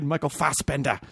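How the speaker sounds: "Fassbender" with a dropped final r, ending in "-dah"; "Fassbender" with a broad ah, no final r; announcer-style name. Shown as a demonstration. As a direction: say "Fassbender" as FAHS-ben-dah. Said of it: "that's the way it has to be said".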